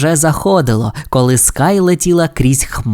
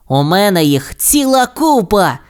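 higher, eager cartoon voice; exclaiming pup; 6 semitones higher than usual. A narrator's reading. Rocky answers Ryder about lanterns, eager exclamation. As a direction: exclaim it proudly in character. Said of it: "вигукнув Рокі".

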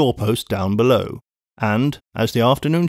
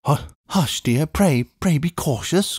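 anxious plea; 3 semitones higher than usual. Acted. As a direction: hush her urgently but gently. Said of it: "cried Lucy".

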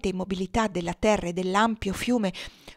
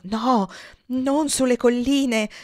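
slow, higher, begging tone; pleading; 4 semitones higher, 4 dB louder, much slower than usual. A narrator's reading. Amira begs her friend not to flee to the hills, pleading slowly. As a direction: beg her, drawing the words out slowly. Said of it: "supplicò Amira".

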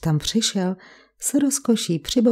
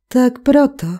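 Tak proto called out higher and louder, stress on proto; exclaiming; 5 semitones higher, 5 dB louder than usual. A narrator's reading. Wife exclaims to her husband as she realises, loud. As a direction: cry it out as the penny drops, landing on proto.

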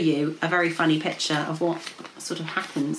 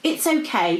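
soothing; 8 semitones higher than usual. A narrator's reading. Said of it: "Princess P said soothingly".

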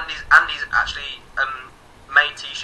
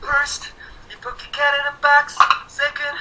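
high, sing-song mock recital; playful high chant; 11 semitones higher than usual. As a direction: recite it like a silly children's rhyme. Reciting Kit Kat in a box.

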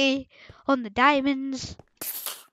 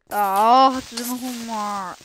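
mock groan of a reluctant kid; reluctant viewer. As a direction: imitate someone dreading homework. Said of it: "You're like".

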